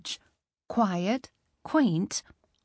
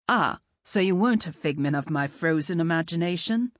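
lower, charming British-Scottish lilt; British-Scottish accent; 4 semitones lower than usual. Acted. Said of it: "That accent".

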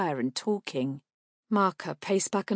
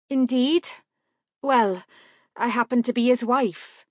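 guarded woman; 6 semitones higher, 6 dB louder than usual. A narrator's reading. Marka guarded.

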